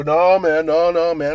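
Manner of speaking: loud, high rude brush-off; high loud mocking no; retold yelling. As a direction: shout the neighbor down. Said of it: "I go".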